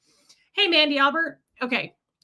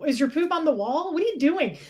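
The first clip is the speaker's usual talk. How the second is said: high pet-talk voice; 5 semitones higher than usual. Acted. Scolding pet on the wall.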